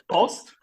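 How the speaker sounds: Brust, Brot, Prost, Post said slowly in German; German words listed. Shown as a demonstration. Explaining confusing German words: slow, careful listing. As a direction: spell out Brust, Brot, Prost, Post slowly to show they sound alike. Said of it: "foneticamente falando, tudo igual".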